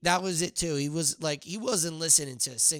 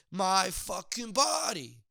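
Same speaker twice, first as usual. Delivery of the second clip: 1 mock angry shout; 5 semitones higher, slower than usual. Mock rant at the man.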